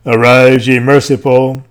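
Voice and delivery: calm, inviting call to rise; gentle summons. Acted. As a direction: beckon the faithful kindly. Summons to the blessed.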